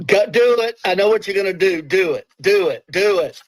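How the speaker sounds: urgent little bursts of encouragement; egging on. Real, not acted. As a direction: push them to do it. Goading co-host into risky pick.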